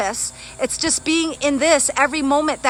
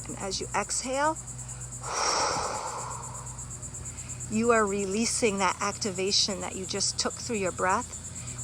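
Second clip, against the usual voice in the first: guided meditation; 3 semitones lower, 11 dB quieter than usual. Acted. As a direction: breathe them gently into calm. Leads a breathing meditation.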